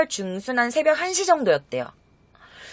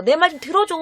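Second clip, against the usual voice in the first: higher-pitched mild appeal; acted pleading; 5 semitones higher than usual. Man appealing to Lisa, acted pleading. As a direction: ask imploringly to be heard. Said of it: "이렇게 호소하고 있었대".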